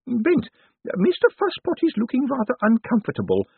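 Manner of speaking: put-on imperious old lady, high-pitched; high voice of an elderly mistress addressing staff; Missus Lavish. A narrator's reading. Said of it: "said Miss Lavish".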